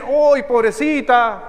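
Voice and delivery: slow, drawn-out "¡Ay, pobrecita!", half-acted; mock pity. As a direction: play a bystander tutting in sympathy. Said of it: "otros dicen".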